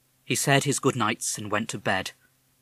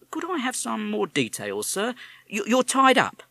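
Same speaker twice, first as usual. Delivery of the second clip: policeman; 13 semitones higher, 5 dB louder than usual. Acted. Policeman probes.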